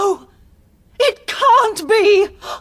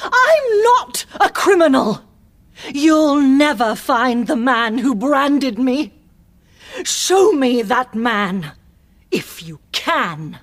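desperate cry; 7 semitones higher than usual. Acted. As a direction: cry out her innocence in defiance. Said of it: "Milady jumped up and cried".

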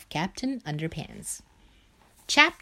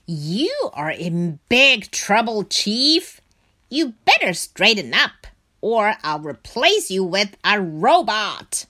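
loud, furious telling-off; angry scolding; 2 semitones higher, 6 dB louder than usual. Acted. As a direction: bark the threat at him. Mayor scolds the chief.

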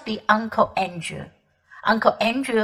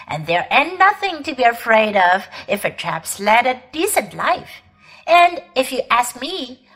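hearty cabby voice. Acted. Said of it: "a good, firm, hearty voice".

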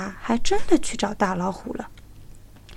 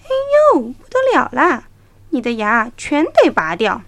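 alarmed cry; 2 semitones higher, 8 dB louder than usual. A narrator's reading. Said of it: "就叫了起来".

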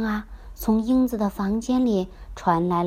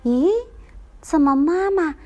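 surprised; 3 semitones higher than usual. Acted. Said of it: "吃惊地瞪圆了眼睛".

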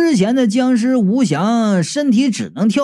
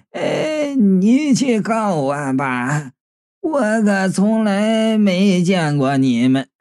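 sneering; 3 semitones lower, slower than usual. Acted. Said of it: "老贾冷笑道".

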